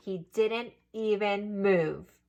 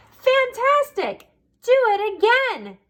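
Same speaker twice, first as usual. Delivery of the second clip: very high, loud cheering; shouted praise; 12 semitones higher, 4 dB louder than usual. Acted. Elizabeth cheering the tired dragon on, high and loud. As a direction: egg him on with fake delight. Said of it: "Elizabeth shouted".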